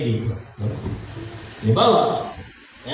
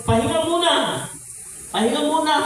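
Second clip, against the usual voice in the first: whiny lazy believer; 9 semitones higher, faster than usual. Retold or imitated. Mocking believer who wants a break.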